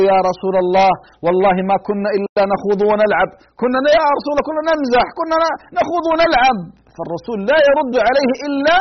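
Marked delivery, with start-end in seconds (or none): 0.1-6.6 pleading excuse. Retold or imitated. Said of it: "ابن عمر: كأني أنظر إلى الرجل".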